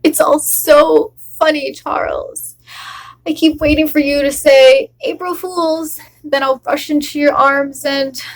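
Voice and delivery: wife pleading with her husband, bitter and teasing; a wife joking through heartbreak to keep him; a wife refusing to let her husband Charles go, wry and hurt; acted monologue.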